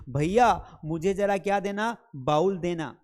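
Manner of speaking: calling out भैया loudly, then asking for a "baul"; mock girl at the buffet. Teacher mimics a girl in the buffet line asking the server: loud call. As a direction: imitate a dressed-up girl asking for a bowl. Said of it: "line में लग के बोलती है".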